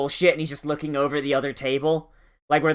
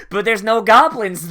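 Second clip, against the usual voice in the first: laughing; 4 semitones higher, 6 dB louder than usual. Real, not acted. Laughing at the anime scene.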